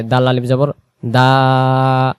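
দাল আলিফ জবর দা spelled out slowly; slow letter-by-letter spelling. Shown as a demonstration. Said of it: "স্পষ্ট আলিফ দেখা যাবে".

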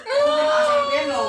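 high, loud cry of Punta ka sa impyerno; commanding shout. Acted. Healer banishing the spirit to hell, shouting.

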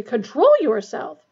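loud, high, drawn-out order; shrieked scolding. A narrator's reading. Matron ordering the professor to behave, shrieking. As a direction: scold sharply, stretching each word. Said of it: "shrieked Madame Pomfrey".

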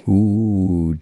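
a short, hammed-up cry of pain as ooh; child voicing the lion's scream, a light mock ooh. Gina struck down in the road, a mock scream ooh. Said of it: "Gina screams".

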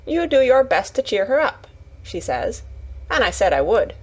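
lightly voiced Yorkshire lass passing on mother's advice; a hint of motherly urging, retold; earnest Yorkshire Martha. Martha quoting mother to Mary, lightly voiced earnest Yorkshire.

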